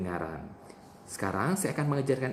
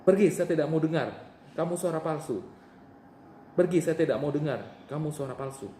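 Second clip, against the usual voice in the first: commanding, raised demo voice; forceful rebuke; 4 semitones higher than usual. Shown as a demonstration. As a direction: order the voice to leave. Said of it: "mari kita lakukan bersama-sama".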